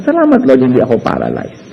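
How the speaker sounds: a quiet thank-you to God; grateful prayer. Retold or imitated. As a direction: pray it in quiet relief. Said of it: "thank God na".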